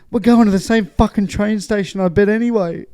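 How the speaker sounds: mock menace from a big fan; scary sports fan. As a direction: retell a threat with some force. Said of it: "scary looking".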